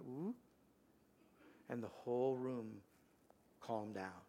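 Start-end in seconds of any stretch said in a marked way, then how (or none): 0.0-0.3 soft rising ooh; a little ooh as everything settles; imitated calming sound. Grandfather showing how the room settled, soft imitated ooh. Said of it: "you could just tell everything went".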